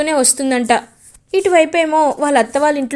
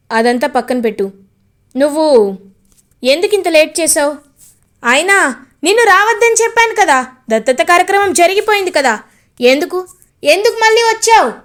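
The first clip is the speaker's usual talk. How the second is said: annoyed scolding; 4 semitones higher, 3 dB louder than usual. Acted. Gagan scolds Bhoomi for coming.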